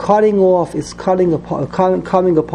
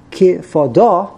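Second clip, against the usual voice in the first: Ki Fa Da, syllables apart, landing on Da; stress on last syllable; slower than usual. Shown as a demonstration. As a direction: put the emphasis on the final Da of Ki Fa Da. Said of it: "put the emphasis on the letter Daled".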